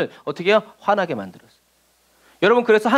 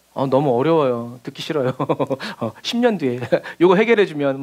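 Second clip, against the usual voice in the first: whiny reluctance; 6 semitones lower than usual. Retold or imitated. Reluctant believer mocked.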